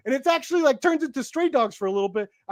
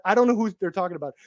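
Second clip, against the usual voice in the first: usual speaking voice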